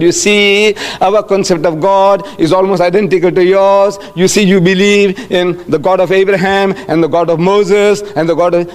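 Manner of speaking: stalling as you piece an answer together; explaining off the cuff. Acted. Imagined answer to questioners, talking round the point. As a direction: ramble on to gather your thoughts. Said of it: "This is how we all talk".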